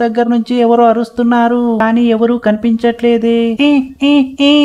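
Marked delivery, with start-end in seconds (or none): 3.7-4.5 short raised "eh" yelps; acted struggling cries. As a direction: strain out little cries while struggling free. Trapped figure struggles to get out. (బయటపడే ప్రయత్నంలో నటించిన మూలుగులు)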